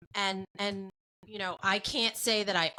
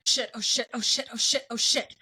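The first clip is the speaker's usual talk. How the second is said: panicked principal; 4 dB louder than usual. Retold or imitated. Principal seeing her caller ID.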